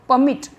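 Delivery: परमिट with weak पर and strong मिट; stress on second syllable. Shown as a demonstration. Teacher repeating the stressed word for students, stress on मिट. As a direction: put the weight on मिट in परमिट. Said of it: "stress आ रहा है".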